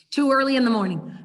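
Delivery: loud, teasing "Too early in the morning". Pretend. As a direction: say it out loud for the room. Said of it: "Have I freaked you all out?".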